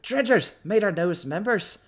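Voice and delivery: sweeping, booming host proclaiming new members; grand welcome. Acted. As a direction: announce them like prize treasures. NPC grandly greets the group.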